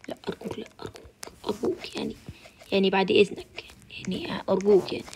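breathless whispered please; whispered pleading. Real, not acted. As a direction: beg softly, barely voiced. Begging the game in fear. (توسل هامس)

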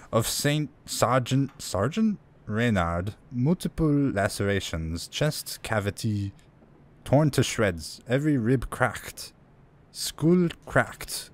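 slow, effortful mock French accent; amateur French accent. Player reading an autopsy note for immersion, amateur French accent. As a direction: read haltingly in an attempted French accent. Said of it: "I'll try my best to do a French accent".

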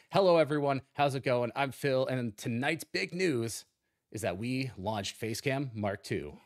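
lightly voiced news anchor, slowing down; a hint of a TV anchor reading the news. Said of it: "if I wanna be in a news station".

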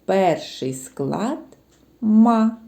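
slow, the syllable «ма» set apart. Shown as a demonstration. Teacher naming the first syllable «ма» for kids. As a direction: say «ма» clearly on its own. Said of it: "Який перший склад у цьому слові?".

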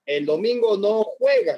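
slow, even teasing warning. Retold or imitated. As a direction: say it slowly, as a matter-of-fact threat. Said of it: "y le dice".

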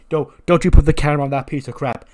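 loud, commanding promo shout; loud wrestler promo. Retold or imitated. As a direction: yell at the cameraman with swagger. LA Knight promo.

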